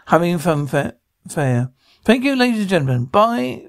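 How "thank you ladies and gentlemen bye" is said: quick, higher-pitched stage farewell; showman's sign-off. Acted. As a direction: thank the crowd like a showman leaving the stage. Showman signs off to audience.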